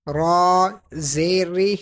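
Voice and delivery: ری with the sound let down, not heavy; dropped, thin R. Shown as a demonstration. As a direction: drop the sound downward on ری. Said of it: "آواز کو نیچے گرا کر".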